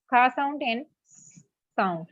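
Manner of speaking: "kha" said slowly as an aspirated k sound; sounding out letters. Shown as a demonstration. Teacher sounding out the letter C, slowly. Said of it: "It has two sounds".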